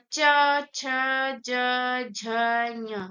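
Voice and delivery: च, छ, ज, झ, ञ with tongue to the palate and pauses between; teacher reciting palatal consonants च to ञ; palatal letters demonstrated. Shown as a demonstration. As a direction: sound out च, छ, ज, झ, ञ one by one. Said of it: "तालु पे जा रही है हमारी जीभ".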